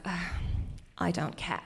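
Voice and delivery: bored, apathetic British put-on; British accent. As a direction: imitate an uninterested young British woman. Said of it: "That was my British accent".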